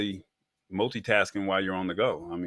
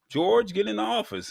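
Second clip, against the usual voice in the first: Mister Spacely; 12 semitones higher than usual. Retold or imitated. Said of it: "Mister Spacely would get on George".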